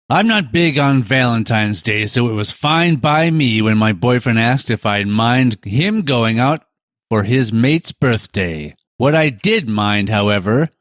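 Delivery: lightly broadcasty story reading; mild dramatic reading for radio; broadcast voice. Acted. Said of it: "I'll try to do it in some sort of, you know, voice, some sort of broadcasty voice".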